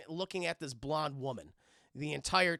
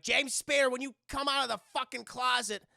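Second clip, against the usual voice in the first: mock angry demand; 5 semitones higher, 4 dB louder than usual. Wife yells at closet.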